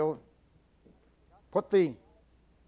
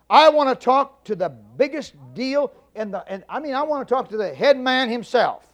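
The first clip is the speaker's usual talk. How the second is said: louder, insistent hammed-up demand; 3 semitones higher, 4 dB louder than usual. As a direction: push the operator for the top man. Demanding the boss on phone.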